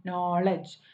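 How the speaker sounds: നോളജ് weighted on "നോ"; stress on first syllable. Shown as a demonstration. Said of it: "stress on the first syllable".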